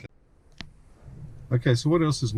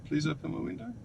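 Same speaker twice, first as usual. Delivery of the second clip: softer, higher polite ask; polite request; 5 semitones higher, 6 dB quieter than usual. Real, not acted. Asking the car to open the window, polite request. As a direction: ask it nicely and softly.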